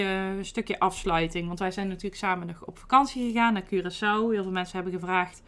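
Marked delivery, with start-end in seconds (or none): 1.5-5.4 talking with a dry mouth; dry mouth, needs water. Real, not acted. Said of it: "want ik krijg een droge mond".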